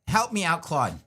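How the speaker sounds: a hint of an old lady calling out loudly; mock plea, an old wife summoning her husband; lightly voiced old lady. Old lady asking her husband Claude for help, playfully calling out. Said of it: "I'm some, like, old lady".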